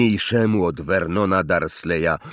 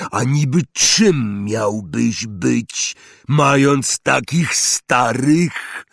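slow, loud hearty giant; proud of the boy; 4 semitones higher, 3 dB louder, slower than usual. Acted. Hagrid proud.

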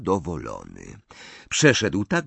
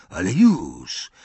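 curt; 5 dB louder, slower than usual. A narrator's reading. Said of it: "rzekł krótko".

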